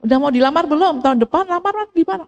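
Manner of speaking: imitating a parent's light ribbing; playful teasing. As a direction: nudge them playfully about proposing, pitch climbing. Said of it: "Kadang saya ledekin".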